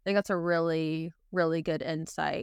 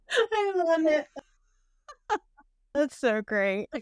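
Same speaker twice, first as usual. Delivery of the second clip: laughing through the words; 7 semitones higher, slower than usual. Real, not acted. Host delighted by the guest's t-shirt joke, laughing. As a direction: crack up while praising.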